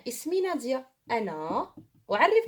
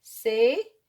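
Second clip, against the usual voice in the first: "C'est" punched loud; emphatic; 7 dB louder than usual. Shown as a demonstration. Teacher drills the phrase for pupils, loud. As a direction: hit "C'est" hard. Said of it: "ma camarade".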